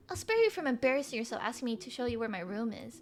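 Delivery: put-on soft girl voice. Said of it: "giving her a soft girl".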